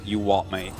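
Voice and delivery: put-on British-accented catchphrase; lightly imitated British accent; Apollo's British accent. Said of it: "Apollo's, like, when he says".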